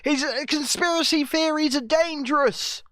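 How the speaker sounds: lightly mocking cheer, slow; hammed-up cheerful approval. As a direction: sneer at their celebrating. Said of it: "They go".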